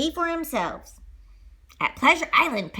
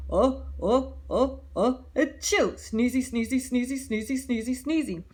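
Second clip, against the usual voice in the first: whale sneezing. Acted. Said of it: "the whale started going".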